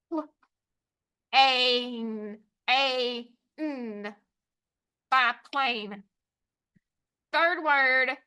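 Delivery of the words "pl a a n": "Pl-, a, n" one sound at a time, long gaps. Shown as a demonstration. Teacher tapping out the second syllable, sounded out. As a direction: stretch each sound of "Pl-, a, n" separately. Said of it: "Second syllable".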